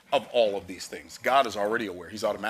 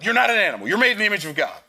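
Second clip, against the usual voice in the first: loud, higher furious scolding; mom yelling; 9 semitones higher, 9 dB louder, faster than usual. Retold or imitated. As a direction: shout it down at the child. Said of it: "She's like".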